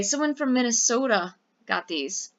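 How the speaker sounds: light Minnesota accent, barely put on; a hint of a Minnesota accent. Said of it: "That's my Minnesota accent".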